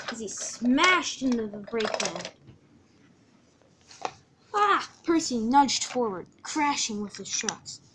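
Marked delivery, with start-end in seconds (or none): 4.5-4.9 short, high yelp; cry of impact. Acted. Percy nudged forward in the crash, startled yelp. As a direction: yelp as you are bumped.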